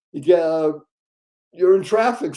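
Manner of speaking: normal talking voice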